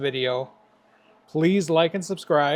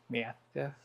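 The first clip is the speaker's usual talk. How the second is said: "Master" lisped with a put-on accent, math-tah; 2 semitones lower, 10 dB quieter than usual. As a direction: say "Master" in a comic accent, lisping. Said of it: "And an accent with a lisp".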